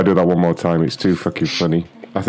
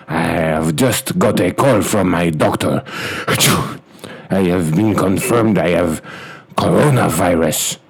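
clipped broken English, hammed-up Chinese accent; mock Chinese accent. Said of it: "It sounds like a French person".

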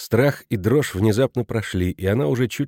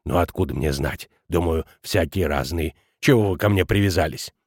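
lower, irritated director; 6 semitones lower than usual. A narrator's reading. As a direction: grumble back defensively. Director defensive reply.

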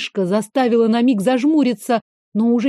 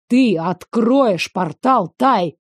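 slow insistent command; slower than usual. Acted. Veyen insists she open the portal, slow and angry. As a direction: press the order word by word.

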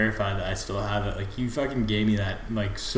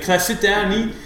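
policeman impression; 8 semitones higher than usual. Fan quotes the policeman's question at moderate volume. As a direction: ask it like the pushy policeman. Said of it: "there's like".

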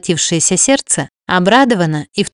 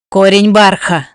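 cursing man; 4 dB louder than usual. A narrator's reading. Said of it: "выругался мужчина".

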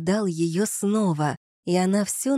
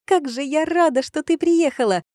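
shrieking jackpot winner; 8 semitones higher, 4 dB louder than usual. Acted. Excited reunion at the station.

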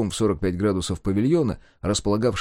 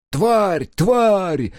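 louder, higher hoarse snarled curse; stifled snarl; 10 semitones higher, 5 dB louder than usual. Acted. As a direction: snarl the curse in a choked rage. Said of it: "придушенно рычала вдалеке".

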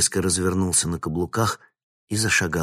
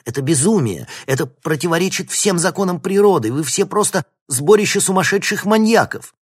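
loud, much higher yelling; frantic shout; 11 semitones higher, 8 dB louder than usual. A narrator's reading. Vinnik calls the scientists maniacs, high frantic yelling. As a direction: scream it at them in outrage. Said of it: "крикнул Винник".

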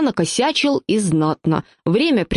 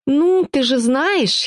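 slow and higher, slyly teasing; sly smile; 6 semitones higher, much slower than usual. A narrator's reading. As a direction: tease her with a knowing hint. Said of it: "хитро улыбнулся я". (хитро, с улыбкой, медленно)

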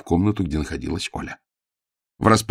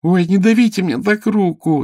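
high, loud whining cry of pain; a girl whimpering as her arm is squeezed; 13 semitones higher, 6 dB louder than usual. Acted. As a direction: whine it out, higher and louder. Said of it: "захныкала Ело".

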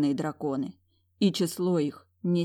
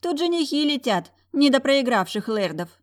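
high, louder, arrogant and smug; haughty smirk; 8 semitones higher, 5 dB louder than usual. Acted. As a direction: sneer down from above. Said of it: "Юола высокомерно ухмыльнулась".

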